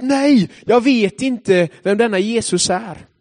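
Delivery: slow, desperate cry of denial; shouted denial. Acted. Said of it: "Petrus bara skrika ut". (Petrus skriker förnekelsen långsamt)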